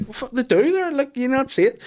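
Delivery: high, mock-incredulous kid; insistent child. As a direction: protest like a child nobody believes. Voices small child insisting.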